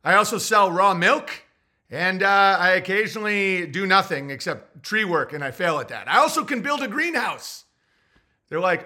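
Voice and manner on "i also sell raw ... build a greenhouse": mock proud listing. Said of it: "So what do you do for a living".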